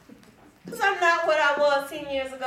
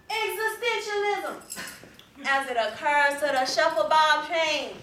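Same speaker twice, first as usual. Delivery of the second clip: ordinary delivery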